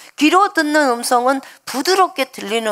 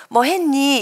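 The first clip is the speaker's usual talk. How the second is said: soft Seoul speech; 2 semitones higher, slower than usual. Shown as a demonstration. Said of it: "굉장히 부드럽게 말하잖아요".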